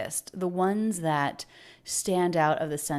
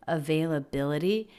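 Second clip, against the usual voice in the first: stretched out. Shown as a demonstration. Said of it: "really stretches it out".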